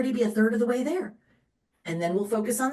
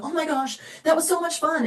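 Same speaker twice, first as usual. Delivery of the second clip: mock gushing; 8 semitones higher than usual. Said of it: "they're gonna be like".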